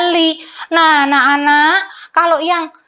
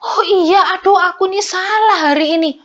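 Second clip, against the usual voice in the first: put-on child admitting fault; 7 semitones higher than usual. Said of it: "harus anak-anak ingat".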